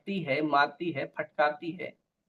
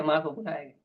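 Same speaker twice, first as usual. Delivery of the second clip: usual speaking voice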